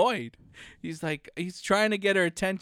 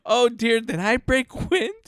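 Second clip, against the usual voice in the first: mock old aunt; 4 semitones higher, 5 dB louder than usual. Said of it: "she's like".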